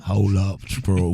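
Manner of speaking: slow Houston hip-hop impression; a Houston DJ. Shown as a demonstration. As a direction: lay it down like a Houston DJ. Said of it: "that's a DJ impression".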